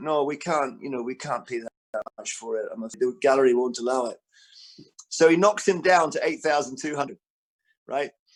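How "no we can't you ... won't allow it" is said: put-on Scottish-accented voice. Retelling how a painting's price was haggled down, speak as Tom Honeyman in a Scottish accent. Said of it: "I'm going to do a Scottish accent".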